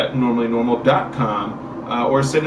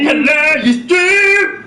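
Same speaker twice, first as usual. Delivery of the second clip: very high, silly voice; squeaky high greeting; 6 dB louder, much slower than usual. Pretend. Exaggerated repeat of greeting.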